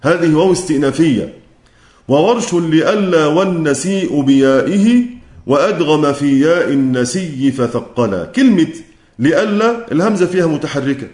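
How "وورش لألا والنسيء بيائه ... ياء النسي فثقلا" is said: slow, measured chant of the verse; poem recitation. Acted. Teacher recites the Shatibiyya verse to students, slow and measured. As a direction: recite it like a memorised poem line.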